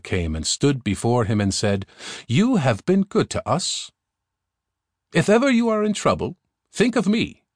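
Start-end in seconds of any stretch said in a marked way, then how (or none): 2.3-7.4 very high, quick little creature voice; a small ant king speaking up high and fast; tiny ant king. Acted. Ant king promises the prince his help, high and quick.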